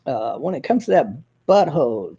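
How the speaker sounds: halting, full of uhs, sinking into a mumble; a hint of Harry's hesitant drawl; imitating Harry. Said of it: "He talks like this".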